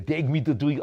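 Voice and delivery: brief burst of a character voice; put-on voice. Auctioneer coaxing bidders with his voice act, put-on voice. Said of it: "I'll do the voice again".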